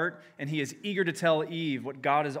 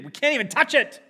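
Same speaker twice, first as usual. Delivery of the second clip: mock Eve; 12 semitones higher, 11 dB louder, faster than usual. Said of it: "as if she wants to".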